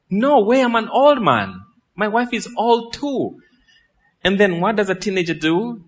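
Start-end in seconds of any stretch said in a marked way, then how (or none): 0.1-3.4 mock old priest protesting. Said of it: "A priest says what?".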